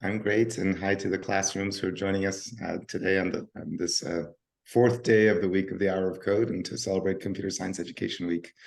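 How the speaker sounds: hoarse, scratchy worn-out voice. Real, not acted. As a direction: speak through a strained, overused voice. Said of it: "My voice is a little scratchy".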